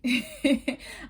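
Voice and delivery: short high giggle; high, amused little laugh. Real, not acted. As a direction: giggle at yourself. Laughs at own dramatic delivery.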